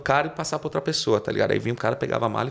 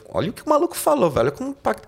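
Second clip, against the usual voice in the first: excited; 11 semitones higher, faster than usual. Real, not acted. Excited about the man's words.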